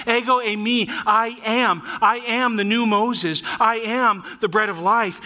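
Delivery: preacher quoting a bold claim; bold declaration. Retold or imitated. Preacher voices Jesus' bold claims.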